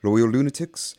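theatrical horror host intro. Acted. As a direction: welcome the lunatics with relish.

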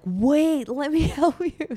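high, loud eager stranger offering help; eager helper voice. Retold or imitated. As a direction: play the keen delivery guy rushing in. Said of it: "he's like".

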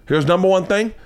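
high, rising mock British instructions; horrible British accent. British host briefing comic before the set, bad British accent. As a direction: list the rules in a badly faked British accent. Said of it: "I'm doing once again horrible accent".

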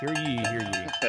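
slow, loud proclamation; town crier. Pretend. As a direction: call it out like a herald. Mock herald announcing injury update.

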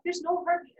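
mildly re-enacted crying; retold crying. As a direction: lift the voice as if tearfully repeating bad news. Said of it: "'cause I'm crying".

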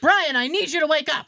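loud urgent calls for Brian; calling out Brian. Retold or imitated. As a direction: call his name to wake him. Dental office calling out to Brian.

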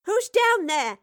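high, loud call from afar; hollering. A narrator's reading. Mistress Bradley calls from the top of the stairs, hollering. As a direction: holler down the stairs, pitched right up. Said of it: "Mistress Bradley's voice hollered from the top of the stairs".

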